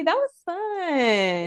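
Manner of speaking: laughing. Real, not acted. Laughing end of game.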